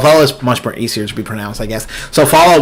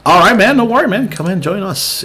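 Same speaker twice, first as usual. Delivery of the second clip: put-on Texan accent; 6 semitones higher than usual. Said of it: "Sorry for my out of the blues Texan accent".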